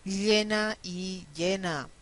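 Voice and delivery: first "llena" with a lateral ll, second "llena" with a y sound, slowly; contrasting ll and y. Shown as a demonstration. Teacher contrasting two words for students, slow and deliberate. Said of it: "cuando se hace la diferencia".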